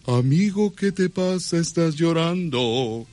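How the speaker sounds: slow, stretched ranchera croon on llorando; a star singer's style. Shown as a demonstration. Host demonstrates star-style croon for the singer. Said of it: "con estilo, eh, de un cantante".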